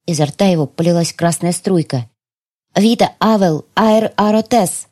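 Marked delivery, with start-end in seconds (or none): 2.8-4.9 slow chant of Вита Авел Аэр Аротес; ancient spell. Acted. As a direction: intone the elven words slowly. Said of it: "древние слова". (медленное заклинание)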